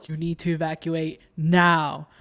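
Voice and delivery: measured, deliberate evacuation announcement; building announcement. Retold or imitated. Announcing an evacuation over the building system, imitated announcement. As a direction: deliver it like an official alert. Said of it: "like, the announcement".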